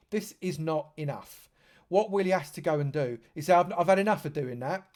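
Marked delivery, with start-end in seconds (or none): 3.5-4.9 put-on light New York accent, said a bit louder; a quick mock New Yorker. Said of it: "in his New York accent".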